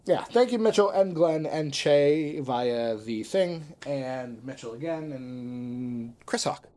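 a courtly Southern gentleman giving thanks; Southern gentleman accent. Acted. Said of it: "my incredible Southern gentleman impression".

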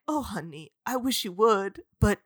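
put-on soft, hushed moody boyfriend; hushed hammed-up heartthrob; mock brooding Jacob. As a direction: murmur it low and soft like a tortured heartthrob. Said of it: "And Jacob's like".

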